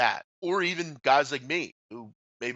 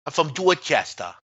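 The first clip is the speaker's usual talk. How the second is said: mock Boston accent; 3 semitones higher, 3 dB louder than usual. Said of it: "I hate Boston".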